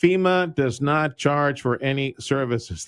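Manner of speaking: slow, every word spelled out for listeners; slow emphatic repeat. Shown as a demonstration. Radio host slowly repeating the guest's key warning, emphatic. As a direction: drive the point home slowly. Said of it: "let's repeat that".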